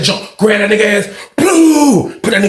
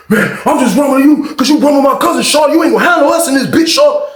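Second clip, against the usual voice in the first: high, loud fighting threat; imitating an inmate's heated yell; angry shout; 8 semitones higher, 4 dB louder than usual. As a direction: yell it at the guy mid-fight.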